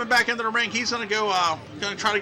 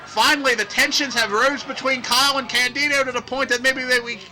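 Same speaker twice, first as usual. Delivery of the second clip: raised, excited wrestling commentary; excited play-by-play; 6 semitones higher, 5 dB louder than usual. Acted. Announcer calling tensions between tag partners, excited play-by-play. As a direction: call the brawl as it breaks out.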